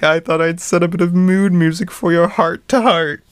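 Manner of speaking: high, hammed-up fake British accent; bad British accent. Mocking Merlin's line in a bad British accent. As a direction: put on a silly British wizard voice. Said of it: "terrible British accent".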